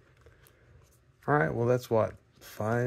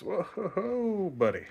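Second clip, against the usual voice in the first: startled whoa; 10 semitones higher, much slower than usual. Real, not acted. Card slipping, talking to it.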